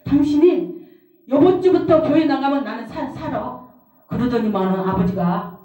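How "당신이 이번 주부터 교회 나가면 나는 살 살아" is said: higher, lightly acted firm declaration; bold. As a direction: imitate mother's bold words. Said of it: "막 입에서 막 담대하게". (담대한 말투 흉내)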